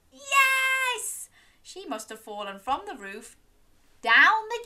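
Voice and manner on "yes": excited high yes. Real, not acted. Reader confirms cheerfully.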